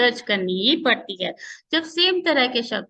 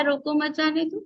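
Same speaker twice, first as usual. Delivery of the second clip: "रोको मत जाने दो" as one phrase, higher, no break; run together without pause; 4 semitones higher than usual. Shown as a demonstration. Teacher reads the first punctuation example, run together without a break. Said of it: "उसकी वजह से उसका भाव बदल गया".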